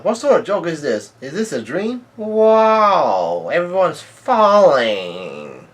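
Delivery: high acted outcry, stretching into a long wail; mock alarm, drawing out the final words; retold panicked yell. Somebody yelling as everyone falls, hammed-up panicked yell. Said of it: "yells out".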